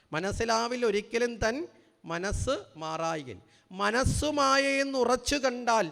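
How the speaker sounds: slow, deliberate line-by-line recital; slow explanatory recitation; verse recital. Shown as a demonstration. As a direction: chant the verse slowly to explain it. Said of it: "എഴുതി വച്ചിരിക്കുന്നത്".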